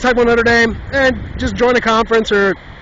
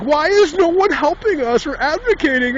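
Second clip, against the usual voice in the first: higher mock whine; whiny bully; 8 semitones higher than usual. Notre Dame as the bully complaining, higher mock whine. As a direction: pout out a self-pitying complaint. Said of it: "the bully is like".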